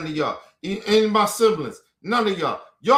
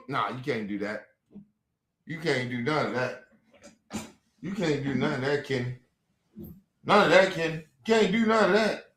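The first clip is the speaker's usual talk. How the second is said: much lower and softer mimicry of his sister; mocking sister voice; 7 semitones lower, 5 dB quieter than usual. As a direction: parrot her no in a low, soft voice. Quoting sister telling him no.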